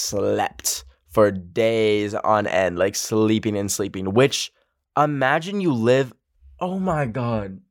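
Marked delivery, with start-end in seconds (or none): 5.0-7.6 trying not to cry; choked up. Real, not acted. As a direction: voice catching with tears. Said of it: "gonna cry again".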